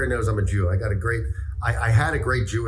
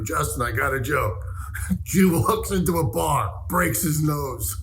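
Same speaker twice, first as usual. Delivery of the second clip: high-pitched, drawn-out joke; excited joke telling; 6 semitones higher, slower than usual. Retold or imitated. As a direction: stretch each word out up high. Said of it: "I went up to Justin and go".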